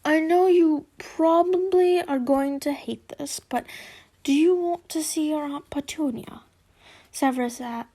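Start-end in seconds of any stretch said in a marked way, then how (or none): 0.1-6.4 hushed, cautious asking; careful father. Acted. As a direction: ease into a delicate question. Severus voiced, cautious question.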